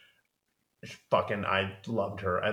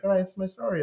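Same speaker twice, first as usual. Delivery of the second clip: mock Louis; 9 semitones higher, faster than usual. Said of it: "he's like".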